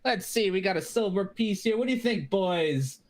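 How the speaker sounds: a sly little gnome sizing up a coin; lightly voiced sly gnome; gnome shopkeeper voice. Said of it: "It's like".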